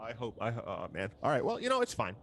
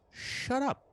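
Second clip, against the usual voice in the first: raised voice, not a scream; firm loud retort; 11 semitones higher than usual. Acted. Cyrus tells the madcaps off, firm and raised. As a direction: snap it back at them. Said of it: "I'm gonna speak loudly".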